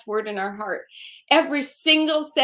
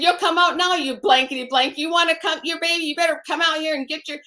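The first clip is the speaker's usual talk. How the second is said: retold threat; 3 semitones higher than usual. Husband ordering her out of the room, retold angry yell. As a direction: bark the abuser's threat, rushing at the end. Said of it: "he said".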